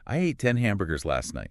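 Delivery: matter-of-fact. Shown as a demonstration. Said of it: "very calmly, matter-of-fact voice".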